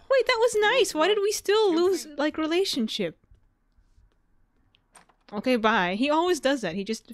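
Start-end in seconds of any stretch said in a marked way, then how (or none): 0.1-3.2 can't believe it went wrong; baffled indignation; indignant surprise. Real, not acted. Shocked at the lost relationship.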